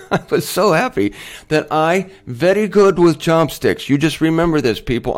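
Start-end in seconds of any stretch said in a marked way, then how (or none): 0.1-3.9 laughing. Real, not acted. Laughs echoing her broken English.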